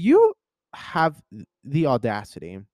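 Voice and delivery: mock-scandalized at the fee; telling off the tow guy, outraged then deflating; outraged sass.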